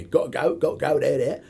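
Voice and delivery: high-pitched Cockney demo with dropped Ts; Cockney glottal stops. Shown as a demonstration. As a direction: demonstrate Cockney, catching each T in the throat. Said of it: "the same with the Cockney".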